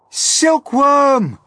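urgent high-pitched shout; loud, high cry for help; yelled. A narrator's reading. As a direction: yell out an urgent call, pitched right up. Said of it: "yelled James".

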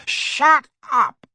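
high, explosive roar. A narrator's reading. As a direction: cut in with a high-pitched roar. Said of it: "roared Uncle Vernon and Aunt Petunia".

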